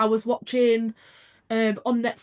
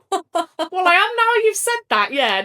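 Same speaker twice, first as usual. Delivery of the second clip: mock tearful reply; 8 semitones higher, 7 dB louder, slower than usual. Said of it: "And I'm like".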